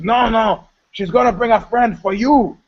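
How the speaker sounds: lightly voiced pleading friend; mock insistent Russian guy.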